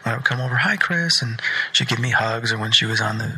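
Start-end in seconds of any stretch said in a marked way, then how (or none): 0.6-1.2 imitating a child. Voicing the child greeting him.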